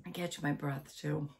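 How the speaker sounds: lively read-aloud storytelling voice; story narration. A narrator's reading. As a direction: read it to listeners like a bedtime book.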